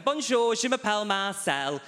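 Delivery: high, bright, proud French reply; eager reply. Retold or imitated. Keen student greeting the professor, high proud voice. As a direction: answer proudly like a keen schoolboy.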